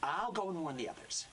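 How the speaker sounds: a restrained touch of urgency; acted warning line. Actor as character leaves to warn the others, mildly urgent. First take of game line.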